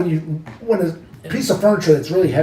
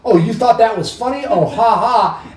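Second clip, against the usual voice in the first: retold sarcasm; 4 semitones higher than usual. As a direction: throw it back at them sarcastically. Retold sarcastic retort to pranksters.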